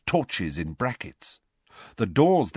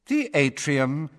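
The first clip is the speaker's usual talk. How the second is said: cool announcer; 5 semitones higher, slower than usual. A narrator's reading. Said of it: "said the cool female voice".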